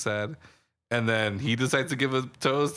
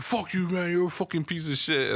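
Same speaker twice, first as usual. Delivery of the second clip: mock angry insult; 7 semitones higher than usual. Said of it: "he's just like".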